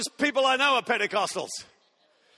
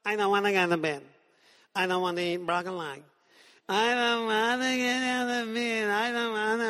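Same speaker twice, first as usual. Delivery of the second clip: put-on whiny child. Preacher mimics a two-year-old refusing bed, whiny. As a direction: whine it like a toddler at bedtime. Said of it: "this kind of whiny thing".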